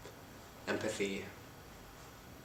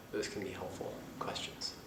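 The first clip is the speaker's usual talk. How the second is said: whispering; 2 semitones lower, 10 dB quieter than usual. Real, not acted. Soft closing remark.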